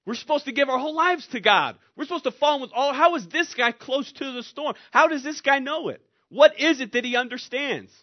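loud, high, pressing questions; impassioned preaching. Acted. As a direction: preach it with incredulous force. Preaching at full force.

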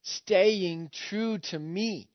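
slow, deliberate rebuke; criticizing. Acted. Preacher as Jesus criticizing the church, slow reproof. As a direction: draw out the reproof, word by word. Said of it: "he's now criticizing this church".

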